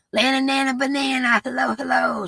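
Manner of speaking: high, sing-song hello; excited greeting. Real, not acted. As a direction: call out a playful hello. Greeting a chat member.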